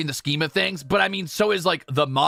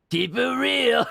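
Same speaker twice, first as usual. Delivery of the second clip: higher mock New Yorker drawl; bad New York accent; 8 semitones higher, much slower than usual. Streamer mimicking the goblin in a bad New York accent. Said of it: "This is a bad accent".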